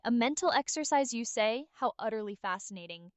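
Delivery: understated sarcasm, falling off at the end; dry. Acted. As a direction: feign interest very dryly.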